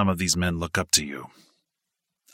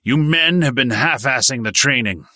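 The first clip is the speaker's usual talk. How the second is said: higher, louder, angry lecture; stern berating; 5 semitones higher, 6 dB louder than usual. A narrator's reading. Instructor scolding recruits for half-hearted training, angry lecture. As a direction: chew them out like a hard sergeant.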